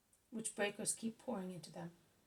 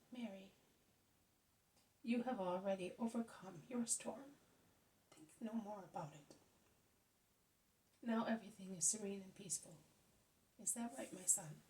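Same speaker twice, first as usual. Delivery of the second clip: calming. Acted. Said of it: "in order to calm her".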